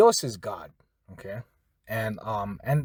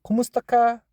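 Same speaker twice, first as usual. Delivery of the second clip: "Kumusta ka?" higher, in a put-on voice; imitating a relative; 7 semitones higher, faster than usual. Teacher imitates Mama and Papa greeting, lightly voiced. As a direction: voice an elder greeting. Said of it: "So they go".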